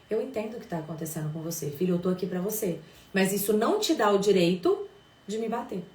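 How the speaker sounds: gentle at first, then firm on the limit; mother setting a firm limit while staying kind; firm and loving. Shown as a demonstration. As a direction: hold the line with affection. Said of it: "Firmeza, afeto e acolhimento".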